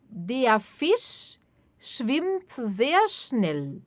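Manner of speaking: very slow, clear and even; slow model sentence. Shown as a demonstration. Teacher modelling sentence slowly for repetition. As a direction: spell it out slowly for learners. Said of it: "teacher models sentence".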